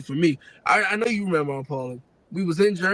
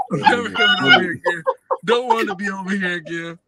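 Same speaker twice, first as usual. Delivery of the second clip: put-on hurt kid's vow; 2 semitones higher, 5 dB louder than usual. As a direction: wail it like a wounded kid swearing off the house. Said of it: "that's my thinking".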